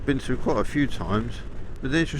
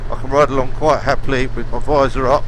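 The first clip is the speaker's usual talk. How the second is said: inside a helmet. Real, not acted. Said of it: "You can probably hear not a lot of wind noise on my helmet".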